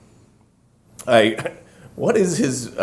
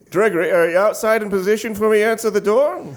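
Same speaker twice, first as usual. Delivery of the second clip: bossy boss; 8 semitones higher, faster than usual. Acted. Character bossing the cameraman.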